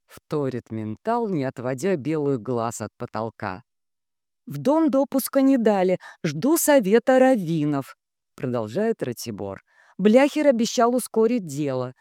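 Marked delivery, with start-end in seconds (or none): 4.5-8.0 raised, measured reading; steady dictating voice; telegram dictation. A narrator's reading. Ratibor dictates. 10.0-11.9 measured, raised-pitch statement; clear, steady dictating voice; telegram dictation. A narrator's reading. Ratibor dictates.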